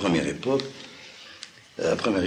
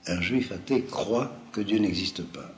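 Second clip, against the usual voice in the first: each word of "Un juif athée croit que Dieu n'existe pas" laid out slowly, weight on "athée"; slow it down and lean on "athée" so the contrast lands; slow deliberate stress; 2 semitones higher than usual. Shown as a demonstration. Lecturer spelling out a subtle distinction to students, slow and emphatic. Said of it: "c'est pas exactement la même chose".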